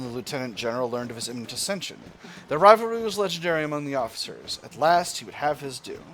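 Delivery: animated storybook read-aloud; storyteller reading a game event; dramatic event narration. Acted. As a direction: narrate the general's tale with lift.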